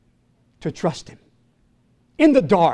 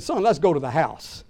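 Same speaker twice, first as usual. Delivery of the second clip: breaking down; 4 semitones lower, 3 dB quieter than usual. Retold or imitated. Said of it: "broken down right there and said".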